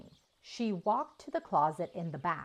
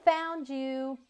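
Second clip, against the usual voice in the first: higher, louder triumphant yell; gleeful shout; 8 semitones higher, 4 dB louder than usual. A narrator's reading. Boy flinging open the closet door, yelling in triumph. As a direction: leap out and yell it.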